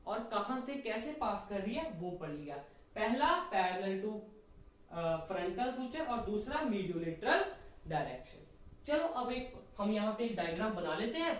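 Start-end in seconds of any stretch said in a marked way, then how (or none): 2.9-8.4 slow, deliberate listing of two terms; slow dictation. Shown as a demonstration. Teacher recapping the two answers slowly. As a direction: give each term slowly for the notebook. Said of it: "दो word में हमने".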